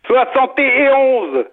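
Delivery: very slow, each word set apart; slow, deliberate correction. Real, not acted. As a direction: spell it out for the confused caller. Slowly correcting the confused caller.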